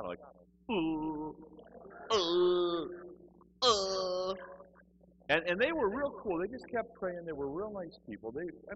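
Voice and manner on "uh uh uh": loud held grunts with gaps; tongue-tied droning. Retold or imitated. Told to open his mouth and praise, helpless mock droning.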